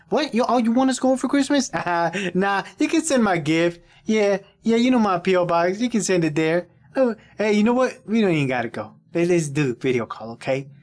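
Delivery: high, loud mock voice brushing off the trip; mock himself on the phone. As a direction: ham up a cheerful excuse to skip the visit. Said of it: "that'd be me".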